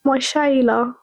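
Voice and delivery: light mock British accent; British accent attempt. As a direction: try it out in a tentative British accent. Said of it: "Is that how you say it in British?".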